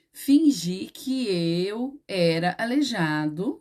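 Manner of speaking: slow, measured dictation; slow teacherly model answer; dictating. Shown as a demonstration. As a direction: spell out the model sentence slowly, word by word. Dictates rewrite to pupils.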